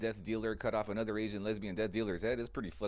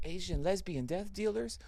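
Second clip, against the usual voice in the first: pitched-up incredulous echo of the name; loud disbelief; 7 semitones higher than usual. Retold or imitated. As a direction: blurt it out in disbelief. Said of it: "repeats it loud in disbelief".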